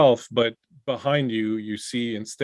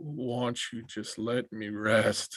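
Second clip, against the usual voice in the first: distant, hollow, hushed, sepulchral, straining voice; 9 dB quieter than usual. A figure strains to speak, voice coming from far underground: sepulchral tone. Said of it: "he says in this sepulchral tone".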